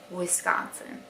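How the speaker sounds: soft "Wisconsin", wiss-CON-sin, short i; proper Wisconsin. Shown as a demonstration. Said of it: "That's how you say it".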